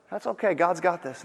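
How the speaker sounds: played-up serenity amid panic; calm. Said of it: "How could you be so calm".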